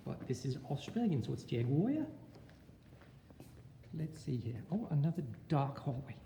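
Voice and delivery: a put-on Australian accent; teacher asking students to rate his Australian accent. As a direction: lay on the Australian twang. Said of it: "How's my accent so far?".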